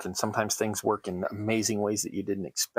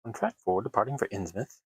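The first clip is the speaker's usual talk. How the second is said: put-on lightly done Mid-Atlantic station announcer accent; a hint of a Mid-Atlantic accent announcing a train; fake Mid-Atlantic accent. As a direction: play a mild, old-timey Mid-Atlantic platform announcer. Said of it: "I'm trying to do the fake Mid-Atlantic accent".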